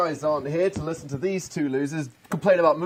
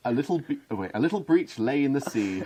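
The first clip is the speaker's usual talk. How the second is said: storybook reading; 4 dB louder than usual. Acted. Reads parody picture book aloud.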